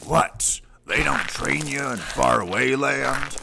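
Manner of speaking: high, scandalized disbelief; mock outrage. Trainer appalled at the recruit, mock outrage. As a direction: act appalled.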